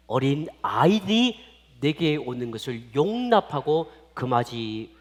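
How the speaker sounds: slow, measured Bible recitation; scripture reading. Acted. Preacher reads the verse to the children, slow recitation. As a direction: read the verse solemnly, swelling at the last sentence.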